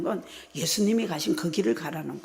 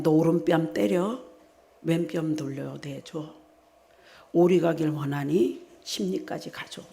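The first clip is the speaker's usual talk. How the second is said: 주님의 말씀 인용; 2 semitones lower, slower than usual. Retold or imitated. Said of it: "주님이 이랬잖아요".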